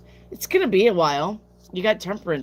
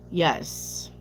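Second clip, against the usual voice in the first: whispered. Real, not acted. Whispered answer.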